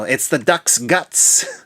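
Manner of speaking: slow, lightly Aussie quote of the stage actor; a hint of Australian, drawn out; mild Aussie impression, slowed right down; imitating Aussie accent. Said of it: "did a fantastic Aussie accent".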